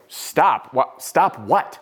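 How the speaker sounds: retold startled confusion; short, puzzled questions; caught off guard. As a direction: act out baffled surprise. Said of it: "I am off guard at this moment".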